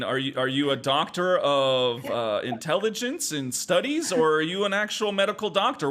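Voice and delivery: rising sarcastic challenge. Real, not acted. Mocking the doctor character.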